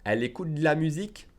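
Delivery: fast native delivery. Shown as a demonstration. Teacher shows what you hear in movies, fast. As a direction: say it fast, swallowing the E in "de la". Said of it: "That's how they will say it".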